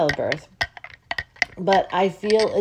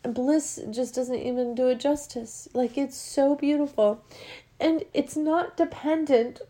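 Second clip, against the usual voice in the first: close to tears; 5 semitones higher than usual. Real, not acted. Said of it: "I wanna cry right now".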